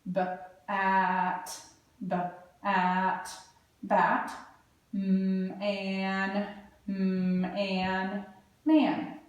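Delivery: B-, at, b-, at, bat, then mm, and, man, sounded slowly piece by piece; sounding out. Shown as a demonstration. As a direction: sound out Batman slowly, bit by bit, like a beginning reader. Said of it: "I'm gonna look for parts".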